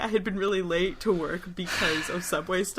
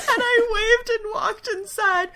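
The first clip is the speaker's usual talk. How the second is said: high, loud squeal through real laughter; laughing hard; 6 dB louder than usual. Real, not acted. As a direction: finish the story while cracking up. Laughing while finishing story.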